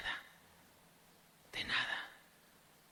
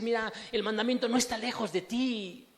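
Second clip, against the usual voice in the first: louder, raised declaration; Moses' exhortation; 6 semitones higher, 5 dB louder than usual. Retold or imitated. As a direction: proclaim it like Moses. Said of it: "Moisés se atrevió a decir".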